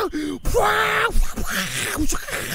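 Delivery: long drawn-out shouted roar; mock wild roar. Soldier mimicking the convoy roaring up from behind, long roared whoa. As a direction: bellow a stretched-out whoa like a charging convoy.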